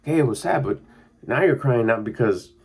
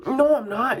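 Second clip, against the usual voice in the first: put-on defensive kid. Kid denies crying.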